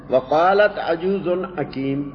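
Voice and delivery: slow measured recitation of the verse; Quran recitation. Shown as a demonstration. Teacher reciting the verse to his students, slow measured recitation. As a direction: draw the Arabic out, reciting.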